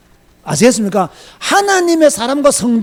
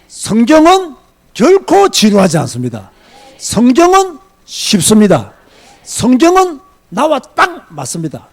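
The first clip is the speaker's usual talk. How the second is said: loud, measured proclamation; firm declaration; 5 dB louder than usual. Real, not acted. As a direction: declare it emphatically to the congregation. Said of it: "확실히 말합니다". (힘주어 단호하게 선포하듯)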